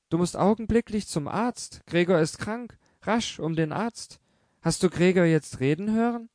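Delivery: high, anxious orders; urgent mother. A narrator's reading. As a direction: send her running for the doctor. Mother urges daughter to doctor. (die Mutter schickt Grete zum Arzt: hoch und drängend)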